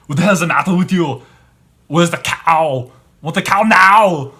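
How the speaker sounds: loud shouted action-star rant; Arnold Schwarzenegger. Retold or imitated. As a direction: bellow it like a muscle-bound movie hero. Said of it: "Arnold Schwarzenegger going into a vegan restaurant saying".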